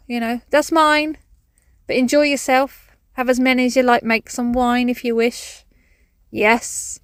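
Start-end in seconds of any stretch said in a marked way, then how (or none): 0.5-5.6 mock calling across to France, louder and higher. Woman calling to French neighbours about her grapes, louder. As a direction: shout it cheerfully over a distance. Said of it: "I'll just be calling out".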